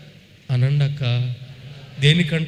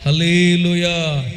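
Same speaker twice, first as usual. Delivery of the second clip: very slow, stretched praise the Lord; drawn-out praise call; much slower than usual. Acted. Preacher calling the congregation to praise, very slow and stretched. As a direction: draw every word out as a call to worship.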